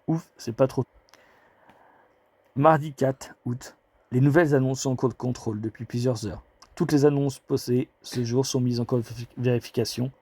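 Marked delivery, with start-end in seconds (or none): 4.1-10.1 speaking with a parched throat; words catching in a dry throat. Real, not acted. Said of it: "j'ai la gorge sèche".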